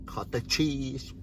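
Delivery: put-on slow, goofy kid voice; childish little boy joke; silly joke voice. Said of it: "the little boy coming out".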